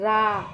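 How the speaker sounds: रा with a long aa; pronunciation demo. Shown as a demonstration. Teacher answers how it is pronounced, रा held long. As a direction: hold the vowel of रा. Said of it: "तो उसका उच्चार कैसे करेंगे?".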